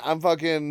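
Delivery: sharp referee whistle done with the tongue. Shown as a demonstration. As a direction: imitate a coach's whistle by mouth. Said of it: "That was a really good impression of a whistle".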